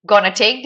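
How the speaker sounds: "gonna" leaned on with a rise; stress on gonna. Shown as a demonstration. Teacher pointing students to the word gonna. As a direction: hit "gonna" so they notice it. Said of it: "Did you hear that?".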